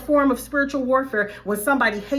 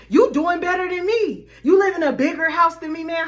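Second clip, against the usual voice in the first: higher, louder jealous whine; mock envious hater; 6 semitones higher, 3 dB louder than usual. Vlogger mimicking a jealous friend's envy, mock whiny. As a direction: play the envious one, slightly pushed.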